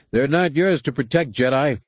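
a narrator's hammed-up yell; shouting back. A narrator's reading. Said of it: "the Aqualish shouted back".

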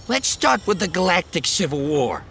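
put-on high, loud nervous young man. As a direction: squeak it out like a startled kid. Post voiced.

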